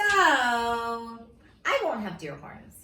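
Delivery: very slow, laughing through the words. Real, not acted. Reader giving up deer horns, laughing. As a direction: let the laugh spill into the line.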